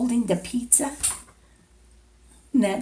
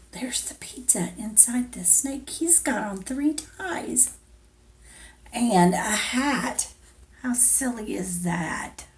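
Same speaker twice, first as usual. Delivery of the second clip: put-on soft whisper to the child; 6 dB quieter than usual. Reading to a toddler, pointing at the snake, whispered. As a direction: hush it like a secret. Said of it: "reading in a whisper".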